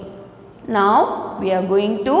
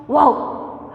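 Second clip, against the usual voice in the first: dog bark. Shown as a demonstration. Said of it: "let us all make a sound like a dog".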